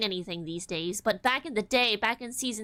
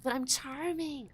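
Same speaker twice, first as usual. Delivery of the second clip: playful insistence; 2 semitones higher, 4 dB quieter than usual. Real, not acted. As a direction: insist on your own charm. Insisting on own charm, first take.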